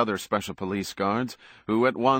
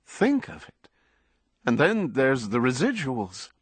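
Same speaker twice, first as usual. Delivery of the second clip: very high, eager agent voice; panting business agent; 5 semitones higher than usual. A narrator's reading. Agent tempts his star with earnings, high eager voice. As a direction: dangle the money with high-pitched glee. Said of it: "in his dog-like, panting voice".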